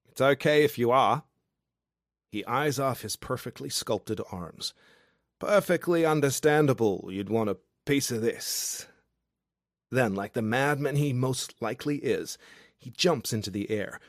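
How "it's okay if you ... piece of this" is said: loose, cheery Australian bloke, pitched up and loud; a tipsy outback charmer calling up to a window; drunk Aussie guy. Acted. Drunk Australian guy below her window, boisterous and cheeky.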